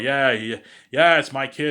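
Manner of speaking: loud, high, hurried-in assurance; overeager bluff. Retold or imitated. Driver lying to the cop about the kid, overeager.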